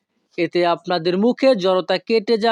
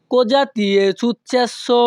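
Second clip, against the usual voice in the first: slow model phrase; slower than usual. Shown as a demonstration. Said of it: "ইতালিয়ান ভাষা".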